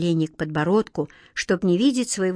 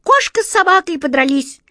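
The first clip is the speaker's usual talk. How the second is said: high, loud forced stage clowning; an old clown straining hard for laughs; straining old actor; 6 semitones higher, 5 dB louder than usual. A narrator's reading. Old actor desperately performing to amuse, straining. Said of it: "надрывался старый актёр".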